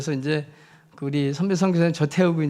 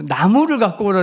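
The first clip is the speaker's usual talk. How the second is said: urgent call; 3 semitones higher, 5 dB louder than usual. Retold or imitated. Calling for a wooden splint again.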